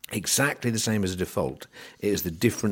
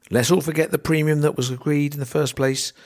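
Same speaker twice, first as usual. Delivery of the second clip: sarcastic; 8 semitones higher, 4 dB louder than usual. Acted. Sarcastic jab at merchants' critics.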